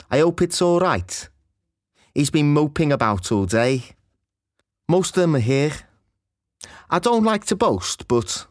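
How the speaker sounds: Scouse O vowel in "hope" and "boast"; sing-song Scouse O sounds; Scouse accent. Shown as a demonstration. A teacher demonstrating the Scouse O vowel. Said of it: "The O sound is different too".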